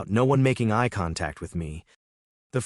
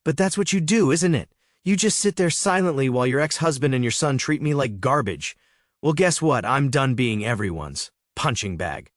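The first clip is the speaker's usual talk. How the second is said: higher, louder, bitter reproach; husband venting at his silent wife, angry; angry accusation; 5 semitones higher, 4 dB louder than usual. Acted. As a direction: let out years of resentment, raised.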